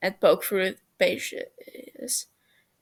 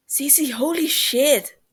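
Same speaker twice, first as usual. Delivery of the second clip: high, slow, tearful disbelief; choked-up joyful outburst; torn between laughing and crying; 6 semitones higher, 4 dB louder, slower than usual. A narrator's reading. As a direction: laugh and cry at once. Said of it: "just as torn between laughing and crying".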